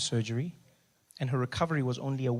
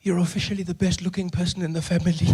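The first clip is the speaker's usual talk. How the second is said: laughing tease; 3 semitones higher than usual. Retold or imitated. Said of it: "She says".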